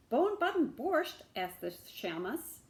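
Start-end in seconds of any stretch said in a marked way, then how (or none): 0.1-1.2 much higher, louder question; disbelieving echo; incredulous. Acted. Shamus echoing the strange dish, incredulous.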